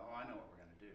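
calm, low-key answer to a fuming wife; unruffled, understated husband's reply; retold calm reply. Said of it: "How can you be so calm?".

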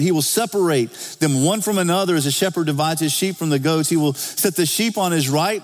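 preacher proclaiming a quoted passage; scripture reading. Acted.

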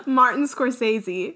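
Scorsese as "skor-SAY-zee"; long AY and a Z in Scorsese. Shown as a demonstration. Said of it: "I have always said".

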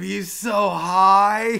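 loud, stretched-out exclamation; drawn-out amazement. Real, not acted. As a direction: crow it slowly at a stoned stranger. Mocking reaction to stoned stranger.

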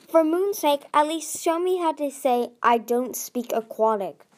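exasperated outburst. A narrator's reading. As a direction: throw up your hands in frustration.

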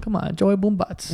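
a hint of old Italian-American uncle; old Italian man accent. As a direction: lightly put on an old Italian guy accent. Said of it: "an old Italian man accent".

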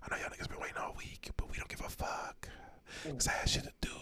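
spooky Halloween whisper; creepy whisper. Pretend. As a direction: hiss it like a creepy ghost. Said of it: "whispering like that".

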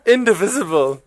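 "Indivisible" as in-di-VIZ-ible, after a laugh; corrected pronunciation. Shown as a demonstration. Preacher thanking the crowd for correcting his speech, short-i pronunciation. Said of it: "Thank y'all for correcting my speech".

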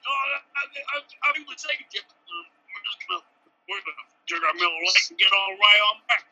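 light hillbilly Southern voice, mock-casual; a loose Southern pilot, lightly done; Southern accent. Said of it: "What accent was that?".

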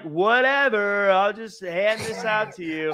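a hint of a bored brush-off; bad Sid impression. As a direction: brush her off like a careless boss, mildly hammed. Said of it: "worst impression of Sid ever".

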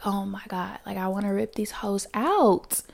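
hushed retold complaint; whispered aside. To listeners, recalling work, a hushed whisper. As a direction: breathe it like a secret at work.

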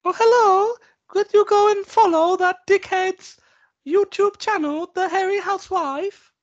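very high, slow falsetto wife voice; impression of wife. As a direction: put on a high-pitched, drawn-out wife. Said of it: "Shall I do my wife quickly?".

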